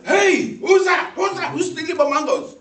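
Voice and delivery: high, loud angry yell; neighbour's shout. Retold or imitated. Neighbour yelling at the mango thief, loud and angry.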